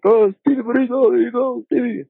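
high, sing-song imitation of a counter worker; mock cashier greeting. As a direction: chirp it like staff calling out a regular. Imitating staff greeting him.

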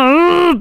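furious growl. Shown as a demonstration. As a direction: let out a mock angry "arr". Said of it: "puedo estar enfurecida y hacer como".

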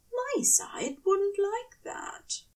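high, slow prim voice for the angel; echoing Aziraphale. Acted. Narrator voicing Aziraphale's old excuse, prim and high. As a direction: mimic the angel's fussy refusal.

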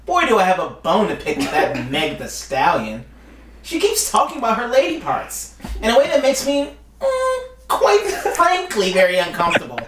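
a hint of a prim white guy; lightly voiced complaining Karen type. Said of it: "White voice, please".

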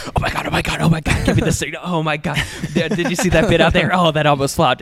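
mock backstage panic. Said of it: "just like".

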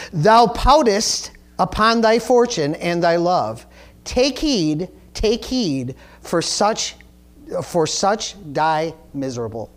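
slow, deliberate play recitation; formal reading of old verse; reading verse aloud. Acted. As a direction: recite the warning in separated phrases, sinking at the end. Reads the play's verse.

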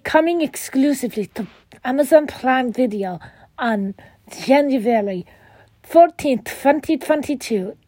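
lightly voiced bad Transylvanian vampire accent; a hint of Dracula's Transylvanian accent. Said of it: "excuse me for the bad vampire voice".

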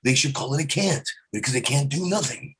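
lightly voiced ranting comedian; a hint of Carlin's rant; George Carlin impression. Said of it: "I almost got George Carlin down".

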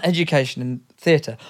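coughing mid-sentence; chesty cough. Real, not acted. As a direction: push the words out past a cough. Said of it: "Sorry, I'm coughing".

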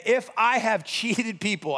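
"if" leaned on, slow delivery; slow reading that highlights "if"; stress on IF. Acted. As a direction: linger pointedly on the word "if". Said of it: "I love it says if".

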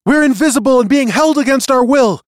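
sustained very high, loud outcry; tiny prisoner piping at full volume; shrill voice. A narrator's reading. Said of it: "The voice came again".

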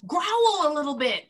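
high-pitched playful urging; coaxing a dog. Pretend. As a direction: egg the dog on in a pretend plea.

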